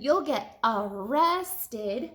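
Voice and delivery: slow, relished threat; triumphant. Acted. Mister Dart catching the thieves, slow and triumphant. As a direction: savour every word of it.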